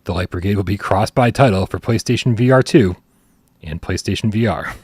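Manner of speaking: scripted game-news read; announcement read. Real, not acted. Host reads listeners a game announcement, scripted news read. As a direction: read the game summary out in measured phrases.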